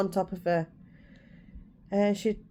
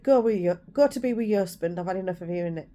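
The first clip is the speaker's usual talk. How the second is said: sharp, louder retold snap at her sister; snapping; 5 dB louder, faster than usual. Telling her sister to go to her husband, fed-up snap. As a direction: bark it out, fed up. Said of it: "I finally snapped that night".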